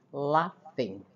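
"laughing" with the gh said as a clear F sound, lafing. Shown as a demonstration. Teacher shows students "laughing" pronounced with an F sound. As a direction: model "laughing" as LAF-ing, F not G. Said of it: "olha a pronúncia do G H".

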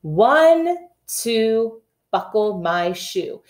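bright, high-starting sing-song read; reading to children. Shown as a demonstration. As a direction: chant the title for kindergarteners. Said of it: "Here we go".

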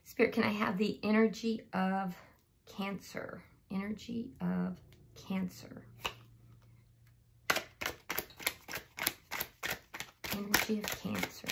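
hushed plea to spirit; quiet, murmured tarot call; soft invocation. Acted. Invokes spirit softly.

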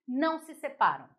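ordinary delivery

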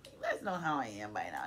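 choked-up, voice sinking low; real emotion catching in the throat; getting emotional. Real, not acted. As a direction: let emotion drag the voice down low. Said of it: "It's making me emotional".

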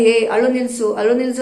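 mock-scold a crying child, not in earnest; the wrong way: a mild snap of "ಏ, ಅಳು ನಿಲ್ಸು". Shown as a demonstration. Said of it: "ಅಂತ ನಾವ್ ಹೇಳಲ್ಲ".

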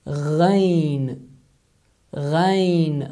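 "ghain" with a gargled back-of-throat gh; Arabic ghain. Shown as a demonstration. Teacher names and sounds the letter ghain. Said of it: "is the name of".

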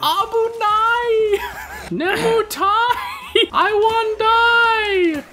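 high, slow, laughing mock Japanese; fake Japanese accent. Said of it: "That was borderline racist".

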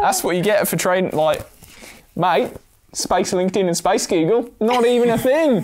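mock Irish. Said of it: "And we're back to Irish".

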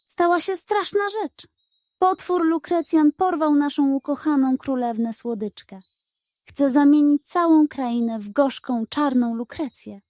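the eldest figure tells the bad news shakily; trembling voice. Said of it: "zaczął drżącym głosem opowiadać". (drżący głos starszego ludzika)

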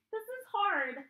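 strained. Real, not acted. Straining upside down in headstand.

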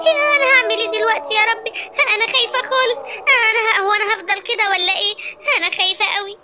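high, fretful worry; frightened. Acted. Lioness wondering if she will stay this way, frightened. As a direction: panic easing into anxious dismay. Transformed character frets in fear.

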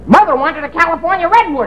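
dummy voice. Acted. Dummy joke, fast.

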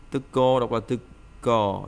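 "Tuko" spaced out, a held first syllable before ko; broken into syllables. Shown as a demonstration. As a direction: sound out "Tuko" in separate syllables. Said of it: "đọc nhanh lên".

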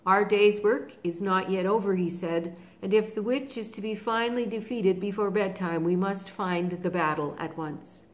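loud, rousing call to the army; rally the troops; commanding lion. Acted. Aslan rallying everyone for battle, loud.

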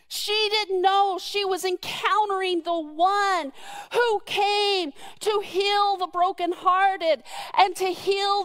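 moved to tears at the pulpit; tearful preaching. Real, not acted. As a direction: preach it through real crying. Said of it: "preaching with tears".

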